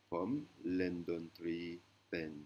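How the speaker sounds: "Pom lendon tri pen" spoken very slowly; slow Thai sentence. Shown as a demonstration. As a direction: lay out "Pom lendon tri pen" one word at a time. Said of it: "Qui veut dire".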